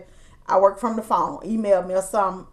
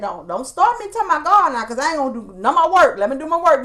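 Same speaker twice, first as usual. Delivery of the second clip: louder, quick, teasing protest; playful protest; 3 semitones higher, 5 dB louder, faster than usual. Retold or imitated. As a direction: brush her off laughing, louder and fast.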